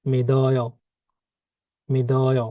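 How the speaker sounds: "মিদয়" with the d carried into the next vowel; linked pronunciation. Shown as a demonstration. Teacher showing learners where the digot moves, linked pronunciation. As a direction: say "মিদয়" joined up, evenly. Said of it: "এই দিগত এখানে চলে যাবে".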